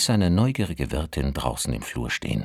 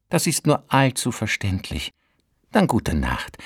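landlady voice; 7 semitones higher than usual. Acted. Landlady says goodnight.

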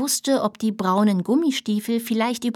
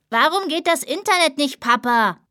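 higher, shouted from inside the house; child shouting; 5 semitones higher than usual. Acted. Child yelling at dad about the internet, shouting. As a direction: yell it from another room. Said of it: "Die eine schrie".

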